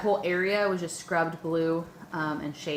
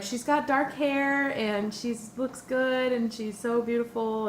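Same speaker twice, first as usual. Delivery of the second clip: excited; 5 semitones higher, slower than usual. Retold or imitated. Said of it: "he was just, like, excited".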